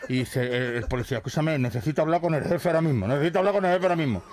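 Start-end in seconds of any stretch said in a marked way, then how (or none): 1.2-3.1 fast, pressing policeman; urgent. Acted. Policeman radios his boss urgently. 3.1-4.2 even faster and higher, almost frantic; more urgent. Acted. Policeman radios his boss urgently.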